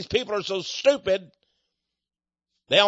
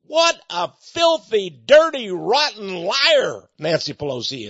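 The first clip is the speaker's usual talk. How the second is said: furious outburst. Real, not acted. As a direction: spit each insult out in real anger. Preacher raging at a politician.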